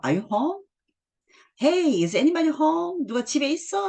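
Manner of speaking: high, drawn-out call of a father arriving home; a dad's hammed-up homecoming call; calling through the house. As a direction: call out to see who's home. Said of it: "하면서 막 들어오죠".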